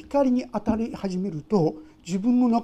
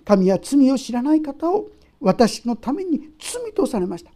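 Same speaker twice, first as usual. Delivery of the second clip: scripture reading; 2 semitones higher, 5 dB louder than usual. Acted. Reads scripture aloud.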